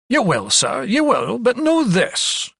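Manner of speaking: rising to high, drawn-out warning; threatening Scottish physician. A narrator's reading. Scottish physician warns visiting doctor, threatening. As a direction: warn the visitor, climbing in pitch. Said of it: "threateningly in the air".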